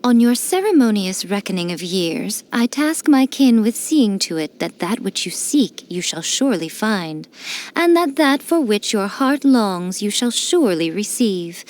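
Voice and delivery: solemn, ceremonious benediction; formal blessing. Acted. Shrine priestess solemnly blessing the traveler on their birthday. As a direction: clear the throat and pronounce it like a rite.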